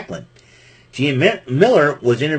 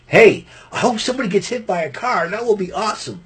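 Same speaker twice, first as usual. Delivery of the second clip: imitating Raven; 8 semitones higher than usual. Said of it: "Raven goes".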